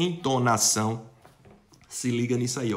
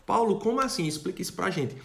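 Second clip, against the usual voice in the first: mock puzzled student; 5 semitones higher than usual. Student asks teacher to explain.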